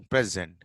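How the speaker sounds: "present" as PREZ-ent, with an open first vowel; noun pronunciation. Shown as a demonstration. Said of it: "So slight difference is there".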